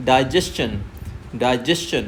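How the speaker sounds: digestion with the ending said chun; teacher gives the right digestion; correct pronunciation. Shown as a demonstration. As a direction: end digestion in a clear ch sound.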